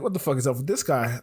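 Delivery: a hint of mock British accent; lightly attempted, bad British accent. Suit-wearing stranger questioning a newcomer, bad British accent. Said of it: "I'm gonna do a bad British accent here".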